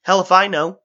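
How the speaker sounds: high, loud shout back. Acted. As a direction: yell over the roaring crowd. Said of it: "Alice shouted back".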